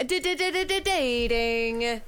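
radio DJ stutter echo; stuttered echo effect. Pretend. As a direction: chop the word like a DJ scratch. Podcast host's radio-style sound effect.

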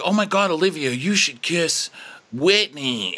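teasing high voice. Retold or imitated. Friends egging Olivia on.

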